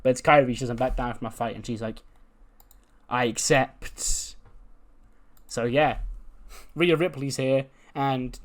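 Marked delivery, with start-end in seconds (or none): 3.1-4.3 slow, deliberate mock acceptance; solemn acceptance. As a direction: accept the challenge, drawing it out. Challenger answers in retold scene.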